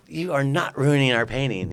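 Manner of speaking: hint of a stern grown-up; mock stern. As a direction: pretend scolding in fun. Playfully tackling a little girl.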